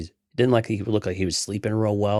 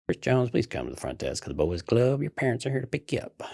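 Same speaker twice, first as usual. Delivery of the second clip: PA announcer voice; 5 semitones higher than usual. Retold or imitated. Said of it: "you had the P A go on".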